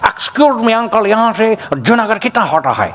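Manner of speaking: put-on mild foreign tourist accent in broken Hindi; a light imitation of a European asking the way in Hindi; foreigner accent. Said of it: "હું બોલવા માંગુ છું". (વિદેશી લહેકામાં હળવી નકલ)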